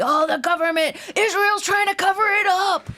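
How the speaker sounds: high, loud mock outcry; hammed-up alarmed accuser; mock conspiracy theorist. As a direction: shout it like a ranting conspiracist.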